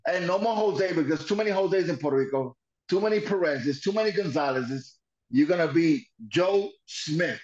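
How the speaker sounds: a hint of a bossy wrestler; mock wrestler voice. Imitating Dick Murdoch renaming him Joe Smith.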